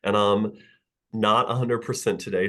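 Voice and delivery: stuffy nasal voice from a cold. Real, not acted. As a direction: talk through a blocked, nasal nose. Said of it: "I apologize for probably the nasal, uh, voice".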